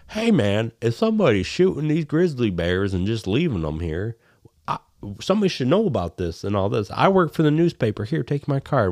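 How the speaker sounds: concerned busybody. Retold or imitated. Newspaper man confronts hunters, imitated earnest concern. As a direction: lightly mimic a worried do-gooder.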